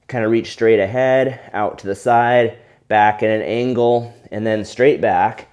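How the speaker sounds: breathless while exercising; winded, catching breath between words. Real, not acted. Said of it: "you know, I'm getting out of breath".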